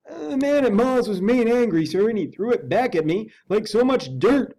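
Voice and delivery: put-on indignant old butler voice; Poole the servant. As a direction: play the put-upon manservant.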